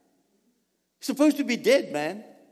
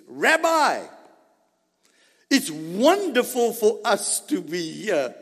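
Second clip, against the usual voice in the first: exclaiming; slower than usual. Acted. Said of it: "Peter exclaimed".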